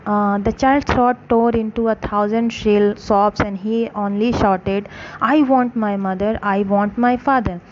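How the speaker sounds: slow, careful read-aloud for a class; story narration. A narrator's reading. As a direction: read each phrase slowly for students. Slow English story reading.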